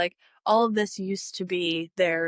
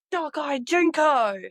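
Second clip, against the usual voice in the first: excited bird call-out; 7 semitones higher, 4 dB louder, slower than usual. Real, not acted. Spotting a bird.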